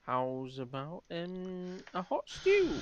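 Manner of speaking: voicing Drew. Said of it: "and he's like".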